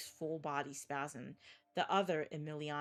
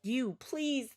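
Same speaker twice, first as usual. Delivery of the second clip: higher and louder, begging in terror; desperate plea; 7 semitones higher, 4 dB louder than usual. Acted. Emiliano begging through the glass, terrified. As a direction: beg for your life. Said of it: "sobbing choke pleas".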